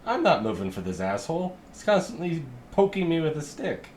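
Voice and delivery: a lightly voiced indignant cow, rising high at the end; a put-upon cow complaining; grumpy cow. Cow grumbling about the halfling poking her, mildly voiced. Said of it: "The cow relays is like".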